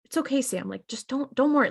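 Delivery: a mild comforting father. Retold or imitated. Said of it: "Very comforting almost".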